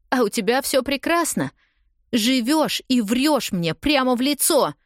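despairing outburst. A narrator's reading. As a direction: spill out her despair at him. Heroine's despairing outburst in rain.

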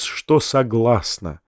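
ordinary delivery

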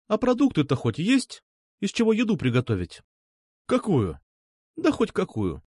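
a hint of a practical girl taking charge; lightly voiced girl ordering him about. A narrator's reading. Nastya bossy, higher.

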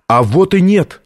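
exclaiming. A narrator's reading. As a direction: exclaim it as a father's rebuttal. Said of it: "воскликнул отец".

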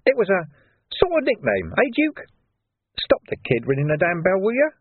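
sly thug Carcer. A narrator's reading. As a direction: voice Carcer as a grinning menace. Carcer's voice in audiobook.

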